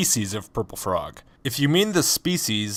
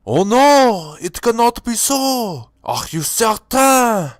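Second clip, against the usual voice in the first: much higher, louder melodramatic gasp of despair; hammed-up dismay; 9 semitones higher, 4 dB louder, slower than usual. Hearing Logic is already dead, hammed-up high dismay. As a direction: ham up the villain's horror.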